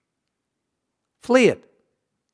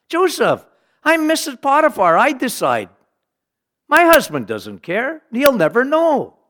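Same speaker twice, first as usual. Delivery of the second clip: seductive Mrs Potiphar; 7 semitones higher than usual. Acted. Potiphar's wife seduces Joseph.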